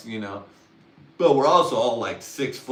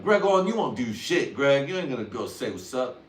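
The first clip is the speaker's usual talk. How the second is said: higher, louder mock taunt; goading cousins; 4 semitones higher, 4 dB louder than usual. Cousins daring him to go say what's up, goading. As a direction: egg him on like teasing cousins. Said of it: "they're like".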